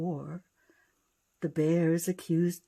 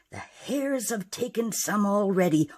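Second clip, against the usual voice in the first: growling; 4 dB louder than usual. Acted. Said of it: "old Ma Bear growled through her teeth".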